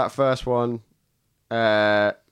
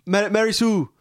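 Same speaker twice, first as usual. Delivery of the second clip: high posh call, stretched out; posh shout; 6 semitones higher, slower than usual. Acted. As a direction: shout her name in a posh voice. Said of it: "it's quite hard to shout in a posh voice".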